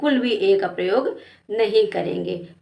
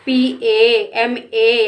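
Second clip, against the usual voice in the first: slow spelling out; 3 dB louder, much slower than usual. Shown as a demonstration. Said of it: "के ए का प्रयोग करेंगे".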